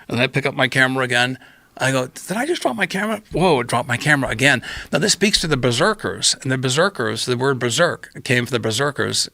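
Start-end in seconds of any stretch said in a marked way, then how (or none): 2.1-4.6 mock stoned astonishment. Acts out stoned self.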